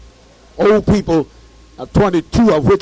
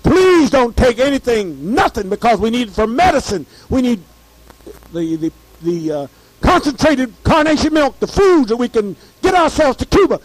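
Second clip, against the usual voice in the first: retold pleading; 5 semitones higher than usual. Pleading with boat passengers.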